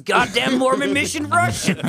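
quoting the friend. Retold or imitated. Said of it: "That's all he knows is".

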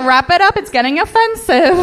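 high, loud telling-off; mock protest. Protests at people mimicking her accent.

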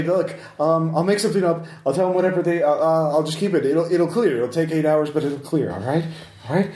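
a scared man placating his captor; lightly voiced nervous NPC. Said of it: "He will say".

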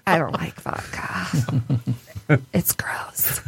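slow, soft, scornful whisper; snobby whisper. Retold or imitated. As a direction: breathe out disgust at vodka. Snobby reply to mom.

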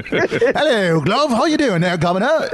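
high-pitched, hammed-up Cockney greeting; over-the-top Cockney accent. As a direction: lay on a cheery cartoon Cockney. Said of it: "most over-the-top Cockney accent".

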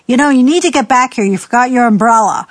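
put-on fast, sharp scolding of a child; a parent scolding a child over an umbrella, nagging; mock nagging parent. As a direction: nag the forgetful kid. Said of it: "we call and say".

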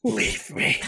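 breathy whispered leave me; hushed quote. Retold or imitated. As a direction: whisper it like a broken old man.

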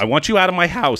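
high, quick overacted indignation; mock outrage. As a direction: kick them out like a melodramatic actress. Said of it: "She's outraged".

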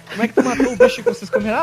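laughing. Real, not acted. Teasing while laughing.

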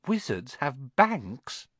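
slow, wondering question; can't believe it; amazed. Acted. Harry amazed.

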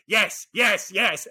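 high, exclaimed gamer's delight; high-pitched triumphant exclamations; excited cheering. Retold or imitated. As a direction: re-enact delighted yelps at a game. Mimicking own reaction while playing.

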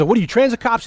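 high, scoffing toll collector; mock toll booth guy. Toll collector mocking the cops, high and scornful. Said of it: "He goes".

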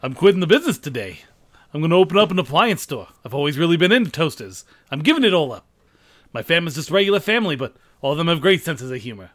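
lightly voiced nervous comic, brisk; a hint of Rodney Dangerfield. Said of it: "do a Dane Cook routine as Rodney Dangerfield".

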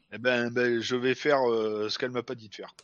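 chewing and chuckling; mouth full, laughing. Real, not acted. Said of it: "de pas parler la bouche pleine".

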